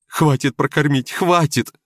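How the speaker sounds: high, loud desperate cry; desperate shout. Acted. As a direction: shout it to the ceiling. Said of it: "кричал он в потолок".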